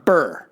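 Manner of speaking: Burr spoken slowly, each sound plain; Burr said clearly. Shown as a demonstration. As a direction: say Burr firmly with a falling tune. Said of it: "B U R R".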